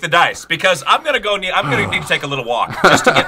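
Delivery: feisty. Real, not acted. Co-host ranting about hard pack, fast and laughing. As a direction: rush it out, half laughing and worked up. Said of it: "this guy got unusually feisty".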